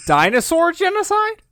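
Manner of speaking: high, loud incredulous squeak; can't believe what she just heard; stunned disbelief. Real, not acted. Friend hears of Flintstones genocide, shrieks in disbelief.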